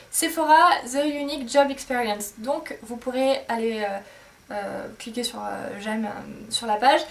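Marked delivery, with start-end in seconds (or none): 0.1-2.3 English brand name in a strong French accent; heavy French accent on English words. Real, not acted. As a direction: read the English title with French sounds. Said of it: "excusez mon accent anglais".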